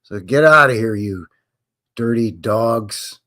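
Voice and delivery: loud, hammed-up brush-off; mock British scolding. British officials shooing out the Acadians, mock loud scolding. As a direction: shoo them away like a scornful official. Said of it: "the British said".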